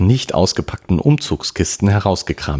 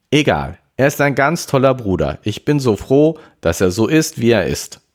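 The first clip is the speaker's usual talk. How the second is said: lightly voiced happy girl, higher pitch; elated sister; 8 semitones higher, 3 dB louder than usual. Karen tells her parents about her brother, lightly elated. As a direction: gush a little, pitched up.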